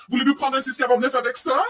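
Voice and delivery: Quebec cashier voice. Retold or imitated. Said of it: "you had to ask every single person".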